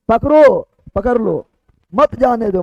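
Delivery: firm "पकड़ो", break, then "मत जाने दो" together; pause after पकड़ो. Shown as a demonstration. Teacher explaining the catch-him meaning, pause after पकड़ो. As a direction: set "पकड़ो" apart from "मत जाने दो". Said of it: "कॉमा पर डिपेंड करेगा".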